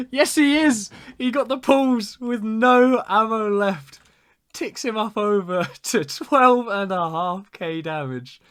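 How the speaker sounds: high, loud, fading slowly from a peak; elated commentator at full pitch; triumphant shout. Real, not acted. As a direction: shout the victory, then gradually come down. Celebrates the winning ram kill.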